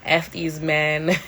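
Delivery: each word slow and weighted; slow deliberate. Real, not acted. Vlogger joking to mothers of three, slow deadpan. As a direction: lay it down slowly like a verdict. Mock declaration.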